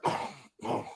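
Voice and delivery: quiet mock sleeping snort; imitated sleep-apnea noise. Imitating his boy asleep on the couch, quiet sleep noises. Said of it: "he has sleep".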